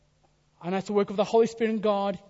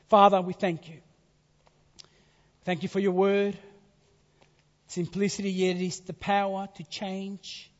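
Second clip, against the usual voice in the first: earnest pulpit prayer; closing prayer. Real, not acted. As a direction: pray over the congregation.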